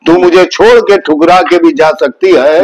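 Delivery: poem recital. Shown as a demonstration. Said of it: "क्या बात है".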